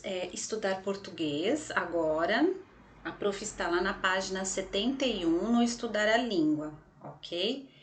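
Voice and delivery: normal talking voice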